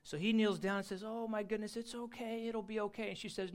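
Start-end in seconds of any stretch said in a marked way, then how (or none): 1.0-3.1 gentle reassurance. Acted. Man comforting crying girl in story.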